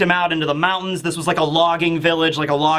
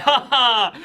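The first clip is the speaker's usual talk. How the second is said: higher, put-on "ha ha"; staged burst of laughter; mock laughing; 5 semitones higher than usual. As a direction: imitate a character's amused laugh. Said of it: "he's just laughing at the whole ordeal".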